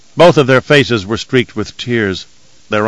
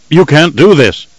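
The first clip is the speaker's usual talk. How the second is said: protest; 6 semitones higher, 5 dB louder than usual. A narrator's reading. Abelard protests the abduction.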